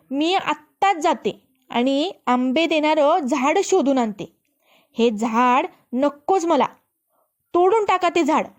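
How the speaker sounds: shouting. Acted. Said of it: "राजकन्या ओरडायला लागली".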